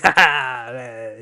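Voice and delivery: loud put-on "ha ha" cackle; acted laughing in reply; mock laugh. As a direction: fake a loud gleeful laugh. Acts out Anakin's laugh in reply.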